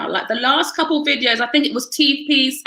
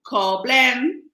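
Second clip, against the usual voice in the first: "Call blend" with the pitch going up at the end; rising tune wrong. Shown as a demonstration. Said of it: "No, no".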